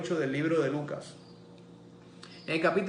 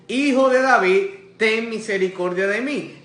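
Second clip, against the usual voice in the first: loud, high preacher's cry; 3 semitones higher, 7 dB louder than usual. Retold or imitated. Blind man pleads despite the crowd, crying out. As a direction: cry out over those hushing you. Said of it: "pero él clamaba mucho más".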